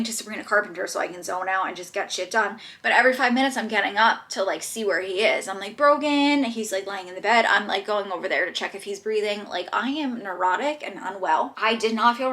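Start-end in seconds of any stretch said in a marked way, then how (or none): 5.8-6.4 calling the cat. Real, not acted. Calling her cat across room.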